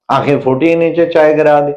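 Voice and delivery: sharp rising scold; husband scolding again over spilt tea; angry scold. Retold or imitated. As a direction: snap at the spill. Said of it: "tension पैदा कर दिया".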